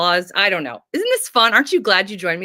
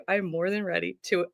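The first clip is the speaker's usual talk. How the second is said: normal talking voice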